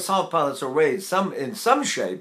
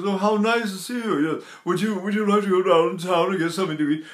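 raised-palate accent; 3 semitones higher than usual. Shown as a demonstration. Imitating people whose accent keeps the palate raised. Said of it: "they have an accent when they talk like this".

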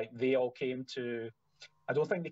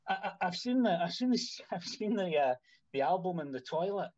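lightly voiced excited fan, higher; a hint of an awestruck fan stammering; retold fan's voice; 5 semitones higher than usual. Musician retelling a fan at an Airbnb, higher stammering voice. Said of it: "the guy came through and he went".

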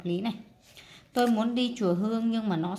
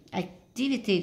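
activity with "tiv" said more strongly; ac-TIV-ity, stress demonstration; stress on second syllable. Shown as a demonstration. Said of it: "âm hai chúng ta đọc mạnh hơn".

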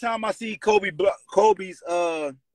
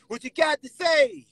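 retold shouting; 11 semitones higher, much slower than usual. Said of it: "I said".

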